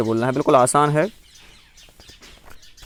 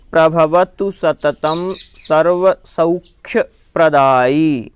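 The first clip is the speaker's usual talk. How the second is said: measured chant of a Jain prayer verse; recited Sanskrit verse; slower than usual. Shown as a demonstration. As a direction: recite each word slowly and clearly.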